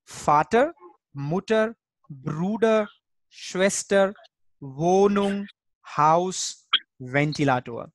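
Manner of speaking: "Vater" through "Ventilator", one word at a time; measured recital of the list for learners; German pronunciation drill. Shown as a demonstration. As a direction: say Vater with F, Wohnung with V, falling on Ventilator. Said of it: "from the pronunciation point of view".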